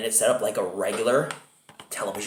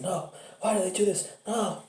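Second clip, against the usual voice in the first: high-pitched imitation of a cowering son; mock cowering distress; 10 semitones higher than usual. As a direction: wail it in a pretend panic, pitched way up. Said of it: "cowering and holding his head".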